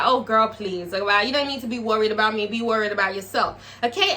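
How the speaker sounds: dismissive brush-off, fast; blasé. Retold or imitated. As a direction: wave her off, girl please. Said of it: "very, like, blasé".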